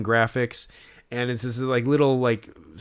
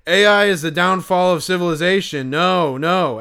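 mock doomsaying, pitched up; floppy hat guy; 4 semitones higher, 3 dB louder than usual. Fan imitates a man's irrational fear of AI, mock dismay. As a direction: proclaim it like a fearful heckler, lightly hammed. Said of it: "He's like".

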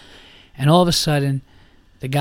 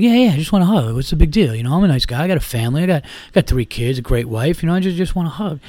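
put-on pleading drunk, pitched up; whiny drunk guy; 3 semitones higher, faster than usual. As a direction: whine like a drunk begging. Drunk guy whining for hug.

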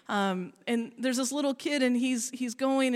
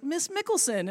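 put-on little kid calling; 6 semitones higher than usual. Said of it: "and he's like".

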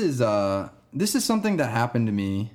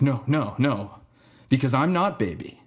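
higher, retold kid's protest; insistent denial; 3 semitones higher than usual. Kid shaking his head at his teacher, insistent retold denial. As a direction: imitate a kid firmly denying it, pitch raised.

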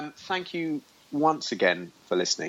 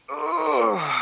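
mock groan. Mock reaction after not wanting to brag.

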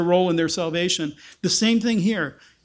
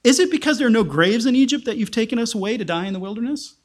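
sarcastic; faster than usual. Acted. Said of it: "a more sarcastic, a more ironic statement".

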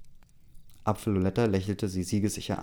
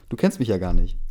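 annoyed mock retort; 7 dB louder than usual. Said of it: "ist davon genervt und sagt".

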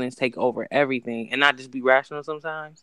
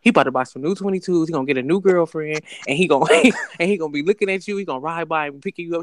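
inner voice rant. Retold or imitated. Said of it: "this is exactly what I said".

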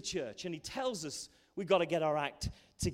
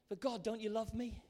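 higher, mildly pleading question; pleading believer; 5 semitones higher than usual. Acted. Believer asks God if he loves them, mildly pleading. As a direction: lightly voice a child questioning a father.

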